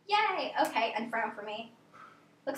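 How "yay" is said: excited. Real, not acted. Patient smiles on request.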